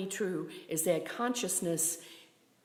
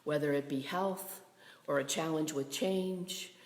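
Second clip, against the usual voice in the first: hushed, measured prayer with spaces between phrases; closing prayer; 2 semitones lower than usual. Real, not acted.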